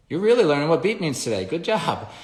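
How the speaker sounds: high, loud happy praise; upbeat praise. Shown as a demonstration. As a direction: cheer the dog on for getting it. Praising the dog.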